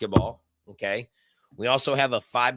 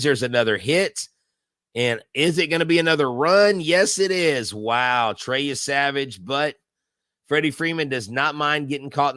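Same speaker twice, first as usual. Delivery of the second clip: live play-by-play. Acted. Host calling the hit and run for stream viewers, lively play-by-play. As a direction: call the run as it happens.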